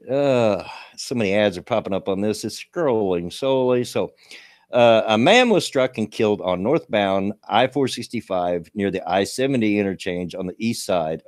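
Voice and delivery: reading a news item aloud. Acted. Streamer reading a local crash story to chat, news read. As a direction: read the report straight through, newsy.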